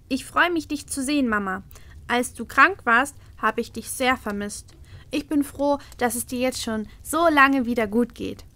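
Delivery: put-on little girl. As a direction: speak as the small daughter. Little daughter speaks.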